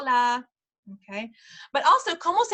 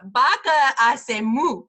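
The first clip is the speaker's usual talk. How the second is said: slow cow demo; 5 dB louder, much slower than usual. Shown as a demonstration. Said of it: "¿Cómo hace la vaca?".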